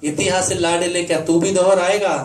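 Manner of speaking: declaimed poem in a mother's words; stirring stage recitation, lightly in role; mother's verse plea. Acted. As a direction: challenge a son in ringing, rhythmic verse. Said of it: "उसकी माँ उसे जो कहती है".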